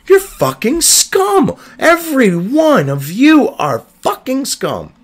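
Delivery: slow, drawn-out, high seething insult; worked up. Real, not acted. Condemning every journalist on the article, seething. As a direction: drag out every word in contempt. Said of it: "I apologize for getting worked up".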